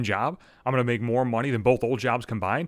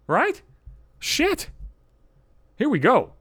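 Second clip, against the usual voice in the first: ironic dread; 11 semitones higher, slower than usual. Real, not acted. Dread as the story turns.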